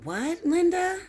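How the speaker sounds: high, loud and slow, indignant; outraged. Real, not acted. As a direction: demand it like a scandalised elder. Outraged rant at Linda.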